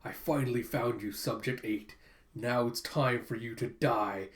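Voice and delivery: low mock-villain delivery; sinister scientist. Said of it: "imagines the scientist that experimented on".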